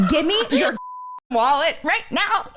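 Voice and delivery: high-pitched demand through laughter; giggling, badly faked dominatrix; cracking up. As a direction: squeal the demand while losing it. Failing dominatrix act while cracking up.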